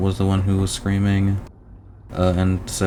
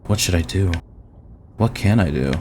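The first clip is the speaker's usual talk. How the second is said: tense story narration. Acted. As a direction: read the self-questioning with a touch of urgency. Reads game narration aloud.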